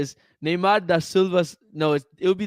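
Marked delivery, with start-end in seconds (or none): 0.4-1.4 Portuguese accent. Shown as a demonstration. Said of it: "try to say it with the accent".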